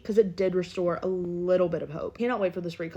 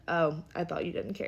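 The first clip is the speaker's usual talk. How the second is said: mildly mocking monotone quote, lower and softer; monotone, nonchalant; 3 semitones lower, 5 dB quieter than usual. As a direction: imitate someone who couldn't care less. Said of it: "In the most monotone, nonchalant voice ever".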